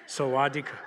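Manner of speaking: "Sawadee krap" repeated as the Thai hello; Thai greeting. Shown as a demonstration. Pastor teaching the congregation the Thai hello, carefully said. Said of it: "That's how you say hi".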